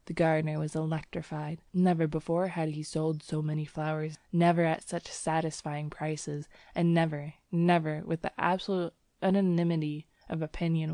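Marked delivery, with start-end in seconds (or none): none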